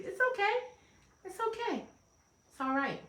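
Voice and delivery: high, soft reassurance; reassuring. Real, not acted. Coach comforting rejected listeners, reassuring. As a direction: gently soothe in a high, softened voice.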